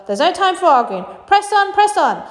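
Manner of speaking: loud, building to a high shout; pressing, shouted urging; urgent command. Acted. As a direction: hurry them on, rising in pitch. Wonka urging the boat onward.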